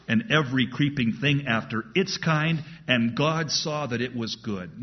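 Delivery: measured Bible reading from the pulpit; preacher reading Genesis to the congregation, measured; scripture reading. Acted. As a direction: read the verses steadily and solemnly.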